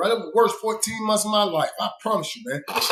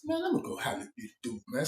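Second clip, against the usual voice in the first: fired-up resolve; 11 dB quieter, faster than usual. Retold or imitated. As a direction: rush it out, pitched up and eager. Retold own resolve to confront.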